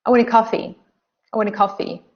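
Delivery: "I" and "a" unstressed, run into "want"; weak forms. Shown as a demonstration. Teacher models natural connected speech, weak forms. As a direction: link "I want a" lightly, weight on "coffee". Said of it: "so we don't stress them".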